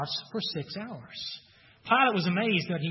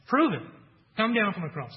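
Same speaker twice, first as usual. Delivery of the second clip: higher-pitched taunting dare; challenging; 3 semitones higher than usual. Acted. Crowd challenging Jesus on the cross, daring him. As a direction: throw it down as a challenge. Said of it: "they're, they're challenging him".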